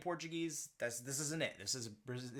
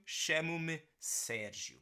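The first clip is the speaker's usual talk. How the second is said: 1 slow demo; 3 semitones higher, slower than usual. Shown as a demonstration. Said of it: "model sentence".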